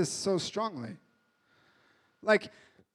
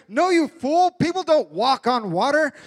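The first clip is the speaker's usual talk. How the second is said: scoffing disciple; 4 semitones higher, 8 dB louder than usual. Retold or imitated.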